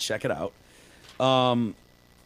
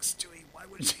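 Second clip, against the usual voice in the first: dying whisper; 5 semitones higher, 11 dB quieter than usual. Retold or imitated. Dying therapist in a retold scene.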